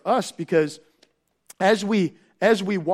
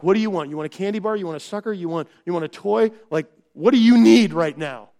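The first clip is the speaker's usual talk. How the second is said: mock pleading parent, building louder to the end; frantic coaxing parent; 3 dB louder, faster than usual. Parent in the store pleading with a screaming child, building louder. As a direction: imitate a parent bribing a melting-down child. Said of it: "and they're like".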